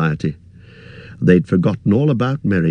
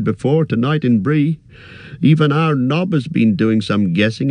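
higher, fussy innkeeper voice; chatty innkeeper chattering on, pitched up; 6 semitones higher than usual. Acted. Innkeeper warning hobbit guest, higher fussy voice.

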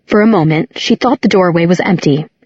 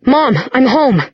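calling out; 6 semitones higher than usual. A narrator's reading. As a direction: call out to someone unseen. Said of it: "Clary called out".

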